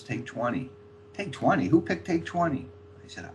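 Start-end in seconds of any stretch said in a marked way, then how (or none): 1.1-2.7 higher, questioning echo; imitated incredulity. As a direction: query it in mock disbelief. Paul's retold incredulous echo.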